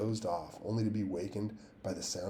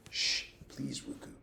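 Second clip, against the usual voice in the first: whispering; 6 semitones higher than usual. A narrator's reading. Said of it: "I whispered".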